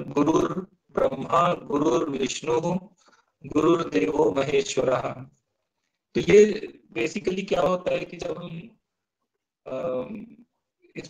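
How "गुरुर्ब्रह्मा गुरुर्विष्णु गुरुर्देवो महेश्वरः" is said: each गुरुर् ending in an articulated "r"; sounded "r". Shown as a demonstration. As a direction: sound the final र् of every गुरुर्. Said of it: "ऐसे ही यहाँ पर".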